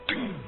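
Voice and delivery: little "ding" of a tap; imitated light tap. Storyteller shows a bamboo pole touching the roof, imitated tap. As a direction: voice the small knock of bamboo.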